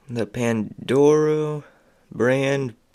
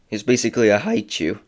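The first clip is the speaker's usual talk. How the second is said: voice cracking; faster than usual. Real, not acted. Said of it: "my voice just cracked".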